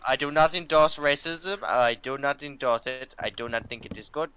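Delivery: slowed, measured fake German; mock German accent. Streamer disclaiming to viewers, in a mock German accent. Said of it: "it is still fun to do the j-, accent".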